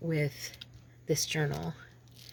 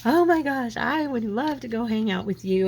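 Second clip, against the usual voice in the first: gushing excitement; 5 semitones higher, 4 dB louder than usual. Retold or imitated. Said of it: "she's like".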